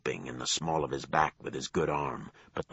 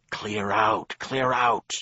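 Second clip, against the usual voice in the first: shouting; 6 semitones higher, 5 dB louder, slower than usual. A narrator's reading. Attackers shout warning in fight.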